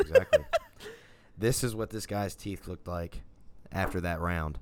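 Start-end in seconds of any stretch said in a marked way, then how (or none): 0.0-0.4 excited squeal. Real, not acted. Laughing agreement.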